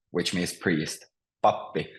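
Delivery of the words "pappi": PAP-pi, stressed at the start; first-syllable stress. Shown as a demonstration. Teacher repeats word for priest, stress on first syllable. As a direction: say Pappi with the weight on PAP. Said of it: "it's always on the first syllable".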